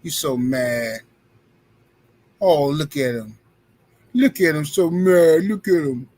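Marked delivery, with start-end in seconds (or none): 0.0-1.0 drawn out, very slow teasing; slow teasing taunt. Real, not acted. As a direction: stretch it to rub it in. Taunting a commenter.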